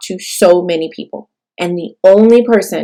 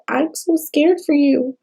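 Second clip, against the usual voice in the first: put-on a light, higher-pitched small-girl voice; imitating scared child; 7 semitones higher than usual. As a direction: lightly voice a frightened little girl. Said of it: "she's like".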